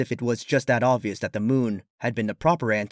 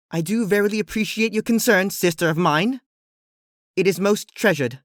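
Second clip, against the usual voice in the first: formal royal voice; 8 semitones higher, 4 dB louder than usual. Acted. Luna formal archaic speech.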